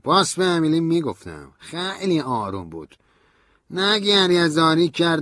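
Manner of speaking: high, loud, slowish grieving voice; Stanley on the verge. A narrator's reading. Stanley tells narrator how Emily took the news, grieving voice. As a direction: hold back tears while telling it.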